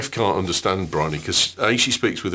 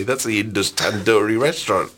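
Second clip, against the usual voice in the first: laughing through it; 2 semitones higher than usual. Real, not acted.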